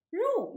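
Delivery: Ru with a falling tone; fourth tone. Shown as a demonstration. Teacher showing students Ru in the fourth tone. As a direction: say Ru starting high and dropping. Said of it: "pronounced in the fourth tone".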